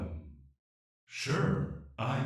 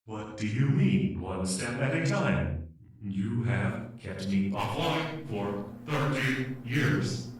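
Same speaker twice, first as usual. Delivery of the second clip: indignant protest. Acted. AI protesting being kept offline.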